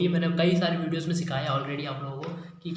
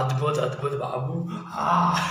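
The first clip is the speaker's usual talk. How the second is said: Ravi Kishan impression; 3 semitones lower, slower than usual. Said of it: "Ravi Kishan".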